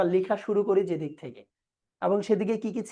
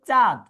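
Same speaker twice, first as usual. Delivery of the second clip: চাঁদ as one emphatic, louder beat; single syllable; 7 dB louder than usual. Shown as a demonstration. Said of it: "একাধিক syllable রয়েছে". (চাঁদ এক সিলেবলে জোর দিয়ে)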